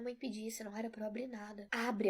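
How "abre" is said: louder, pressing command; an urgent, louder "open up"; more urgent. Acted. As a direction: push the word like she can't wait. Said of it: "ela repetiu mais urgente".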